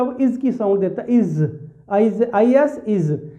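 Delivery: इज said with a z ending; pronunciation demo. Shown as a demonstration. Teacher shows students that इज ends in z. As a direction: end इज on a buzzing z, not an s. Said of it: "तो वो इसकी आवाज़ नहीं देता".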